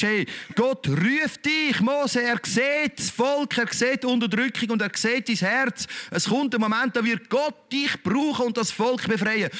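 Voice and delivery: lightly voiced divine call; voice of God calling. God's call voiced to young Moses.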